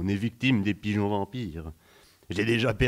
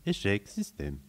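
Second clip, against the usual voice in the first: softer, dying machine voice; robotic error message, fading; 4 dB quieter than usual. Acted. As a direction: let the computer run down. System failure message. (message d'erreur qui s'éteint)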